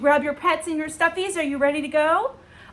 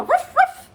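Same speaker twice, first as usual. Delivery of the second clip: quick imitated dog ruff; playful spoken dog woof; dog bark; 6 dB louder than usual. Shown as a demonstration. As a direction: give a little "ruff" like a dog. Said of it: "What sound does a dog usually make?".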